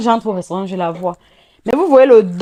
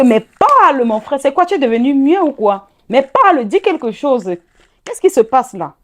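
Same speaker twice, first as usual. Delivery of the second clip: louder, higher demand to speak up; retold shout; 5 semitones higher, 4 dB louder than usual. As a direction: push him to answer, raising the voice. Shaking the silent fiancé.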